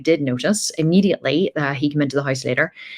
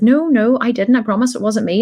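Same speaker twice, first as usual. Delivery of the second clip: put-on much higher, louder frantic kid voice; guilty five-year-old denying to her dad; panicky child denial; 7 semitones higher, 4 dB louder than usual.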